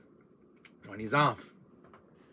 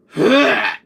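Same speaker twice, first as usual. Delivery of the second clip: loud throwing-up noise; loud, acted retch; 9 semitones higher, 14 dB louder than usual. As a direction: heave loudly as if vomiting. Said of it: "I think I gotta throw up".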